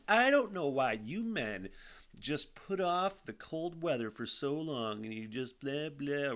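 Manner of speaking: lightly mocked mother, slow and drawn-out; imitating mom. Son retelling mom's cold-weather complaint, light mock-mother voice. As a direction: slowly parody a mother's complaint. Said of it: "or whatever she said".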